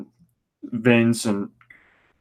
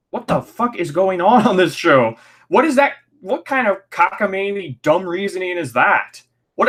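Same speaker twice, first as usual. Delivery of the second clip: exasperated rant; 6 semitones higher than usual. Real, not acted. Ranting at the show's logic.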